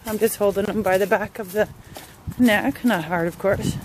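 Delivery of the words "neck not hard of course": ordinary delivery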